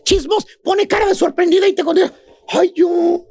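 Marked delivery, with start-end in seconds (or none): 2.5-3.2 a fake-sweet friend denying everything; mock innocent gossip. Comedian mimics the two-faced friend, mock-innocent denial. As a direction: play the gossip acting shocked and innocent. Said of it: "lo primero que te dice la chuntara".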